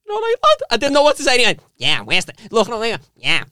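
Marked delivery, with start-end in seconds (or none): 0.0-0.6 high awkward greeting. Retold or imitated. Retold own awkward greeting. 1.8-3.4 little voice. Retold or imitated. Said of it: "Little voice, lad".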